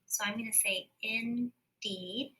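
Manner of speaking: indeed said slowly, long E drawn out; stretched long E. Shown as a demonstration. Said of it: "Double E always says E".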